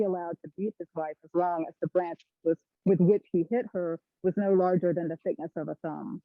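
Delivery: muffled, drifting off the mic; headphones used as mic. Real, not acted. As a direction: voice fading in and out. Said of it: "your voice is kind of fading in and out".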